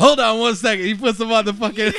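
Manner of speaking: high, loud Genie impression. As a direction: keep the hammy genie going. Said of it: "Robin Williams, when he comes out".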